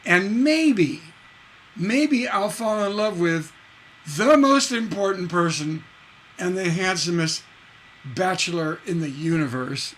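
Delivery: sassy reading; attitude line. Shown as a demonstration. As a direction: toss it off with attitude. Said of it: "with an attitude line".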